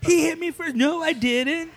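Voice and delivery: put-on high whiny kid voices; bickering kids. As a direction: squabble like little siblings. Siblings bickering to mom.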